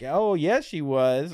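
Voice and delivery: high, loud fake enthusiasm; mock eager agreement. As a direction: chirp it out, overly keen. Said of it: "And I'm like".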